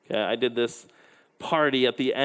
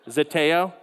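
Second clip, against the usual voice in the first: laughing at the slip; 2 semitones higher than usual. Real, not acted.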